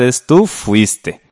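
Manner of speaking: "fuiste" said slowly, ending cleanly on e with no s; careful model: "fuiste" with no final s; slow clear model. Shown as a demonstration. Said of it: "Termina en E".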